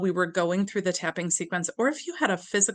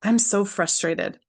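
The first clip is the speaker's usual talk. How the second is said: tapping affirmation; 3 dB louder, slower than usual. Shown as a demonstration. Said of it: "Under the nose".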